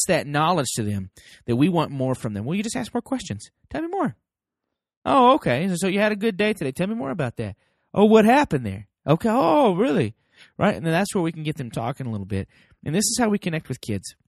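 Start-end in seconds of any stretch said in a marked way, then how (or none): 3.7-4.2 much higher, coaxing prompt; high-pitched show of interest. Acted. Models interested follow-up question. 5.0-10.1 higher-pitched, engaged listener reactions; keen interest. Acted. Models interested parent asking questions.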